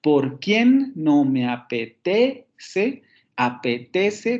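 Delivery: "Por quien no me apetece" very slow, QUIEN and TE rising; drawn-out "por QUIEN no me a-pe-TE-ce"; stress on sixth syllable. Shown as a demonstration. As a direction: scan it slowly, lifting QUIEN and TE, then repeat "apetece". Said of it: "tenemos otra vez el acento en la se".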